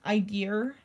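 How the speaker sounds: idea said as "eye-deer"; idea with added R. Retold or imitated. Mocking how British people say it, idea with R. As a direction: put an R on the end of idea. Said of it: "it'll have an R on the end almost".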